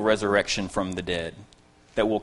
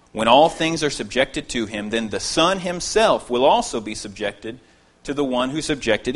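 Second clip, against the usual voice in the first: steady, louder public reading of the passage; scripture reading; 4 dB louder than usual. Acted. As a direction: read the verses aloud to the congregation. Reads scripture passage aloud.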